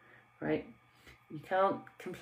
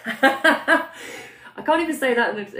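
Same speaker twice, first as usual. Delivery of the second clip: cracking up, high and loud; laughing; 7 semitones higher, 8 dB louder than usual. Real, not acted. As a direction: talk through a real burst of laughter. Cracking up over blimey.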